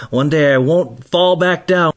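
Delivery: a hint of an excited four-year-old; excited little daughter. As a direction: imitate a small girl's eager announcement. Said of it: "she jumps up and down. She goes".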